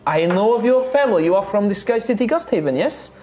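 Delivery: warm, eager tavern keeper; Rosalina voice. Acted. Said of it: "And she's just like".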